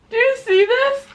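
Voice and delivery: high laughing question; quick amused ask; laughing through tears. Real, not acted. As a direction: laugh while showing the spicy tears. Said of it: "Guys, I'm crying".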